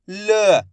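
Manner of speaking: "ल" as a brief neutral "luh"; half-pronounced letter. Shown as a demonstration. Teacher sounding out the last letter for learners, half-pronounced. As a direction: say "ल" with a half vowel, not "laa". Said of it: "वहाँ पे अपन आधा उच्चारण करेंगे".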